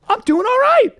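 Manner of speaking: loud proud boast; triumphant. Real, not acted. To the guys, a loud proud boast. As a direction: announce it like a victory. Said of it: "triumphant then laughing repeat".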